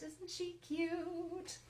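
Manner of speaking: high, soft and slow, cooing over something adorable; cutesy coo. Real, not acted. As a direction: gush over how cute she is, drawn out. Admiring a finished stamped figure.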